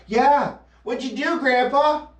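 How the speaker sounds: put-on a grandkid asking about the old days; voicing a grandchild.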